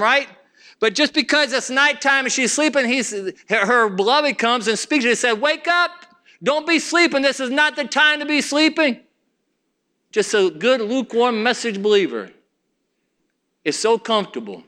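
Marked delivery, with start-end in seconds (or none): 5.4-9.0 higher-pitched, mildly urgent wake-up call; urgent rousing. Acted. Beloved speaks to his sleeping bride, urgently rousing her. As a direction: rouse a sleeper with raised pitch.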